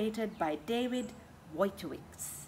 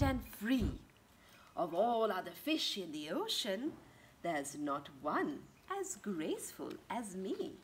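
lightly voiced manta ray. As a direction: float the words like wings. Manta ray speaks in book.

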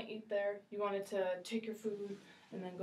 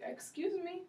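polite customer; 3 semitones higher than usual. Shown as a demonstration. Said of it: "we could say".

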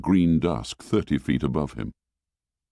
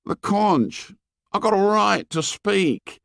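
Piggy voice; 13 semitones higher than usual. A narrator's reading. Boy Piggy asserts his right.

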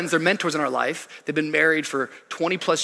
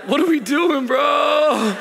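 mock exasperated shout; 9 semitones higher, 5 dB louder, much slower than usual. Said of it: "You're like".

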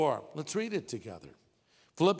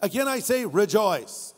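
louder ringing repeat of the verse; emphatic repeat; 3 semitones higher, 5 dB louder than usual. Real, not acted. Pastor repeating the verse to the crowd, loud and insistent. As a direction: ring it out. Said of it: "did you hear that?".

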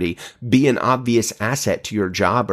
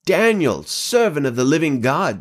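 American badly faking a British accent; king's anguished cry in a shaky attempt at British; mock-regal call in a poor British accent; 4 semitones higher than usual. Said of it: "kind of an American accent, trying to do a British accent very poorly".

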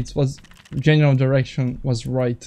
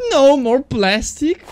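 mock surprise; 10 semitones higher, 6 dB louder, slower than usual. Mock echo of friend.

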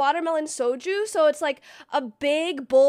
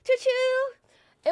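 high playful choo-choo; 9 semitones higher than usual. Acted. Random train noise.

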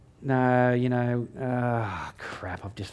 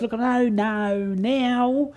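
much higher, breaking into laughter; squeaky, laughing plea to start over; high giggly retold request; retold pleading; 9 semitones higher than usual. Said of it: "I said".

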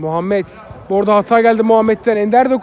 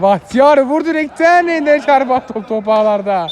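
excited commentary; 4 semitones higher than usual. Real, not acted. Shot off the post, commentary.

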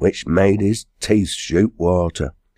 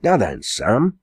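shouting; 6 semitones higher than usual. Acted. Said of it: "Giles shouted to him".

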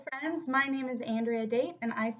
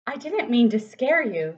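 Boris with a grin; 7 dB louder than usual. Acted. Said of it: "said Boris with a grin".

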